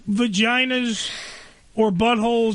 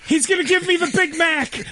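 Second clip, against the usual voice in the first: excited shout; 5 semitones higher than usual. Pretend. Joke shout about McDonald's.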